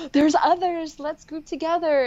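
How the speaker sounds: high and loud gleeful call; rally everyone together; excited. Retold or imitated. Finding each other, gleeful and loud.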